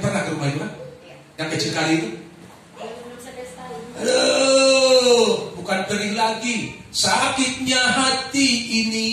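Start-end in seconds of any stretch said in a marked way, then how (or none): 4.0-9.1 pained lament. Real, not acted. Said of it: "preacher recalling deep hurt".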